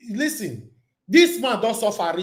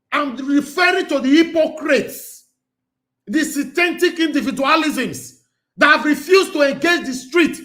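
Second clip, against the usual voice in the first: angry shout; 4 semitones higher than usual. Real, not acted. Host denouncing critics angrily.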